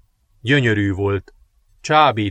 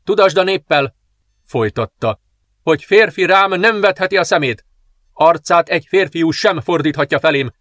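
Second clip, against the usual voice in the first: higher, louder harsh decree; ruthless dark princess decree; 4 semitones higher, 3 dB louder than usual. Acted. Princess orders the general to announce her cruel laws, ruthless. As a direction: decree death without mercy.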